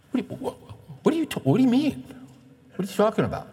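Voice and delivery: high, stumbling indignant protest; mock defensive. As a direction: sputter defensively, pitched well up. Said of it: "I get defensive".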